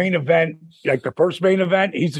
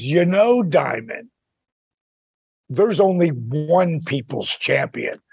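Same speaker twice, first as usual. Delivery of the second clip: The Rock's wrestling persona; slower than usual. Retold or imitated. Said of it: "rolling into character".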